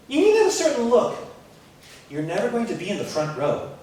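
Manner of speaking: brisk, bossy choir director, only lightly voiced; a hint of the dismissive director. Choir director brushing off the student, briskly and lightly voiced. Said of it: "These are things my choir director actually said to me".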